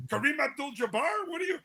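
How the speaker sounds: mocking disbelief fading out; mother mocking. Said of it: "And I go".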